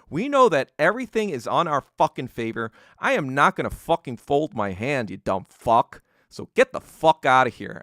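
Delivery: loud, angry speech telling Nixon off; defiant rant. Retold or imitated. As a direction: hammer every "we know" at him. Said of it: "Ho Chi Minh defying Nixon".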